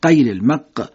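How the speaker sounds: غ of المق stopped short like ق; no drawn ghain in المق; cut-off qaf. Shown as a demonstration. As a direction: clip المق into a qaf stop. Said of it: "شبیه قاف بشه".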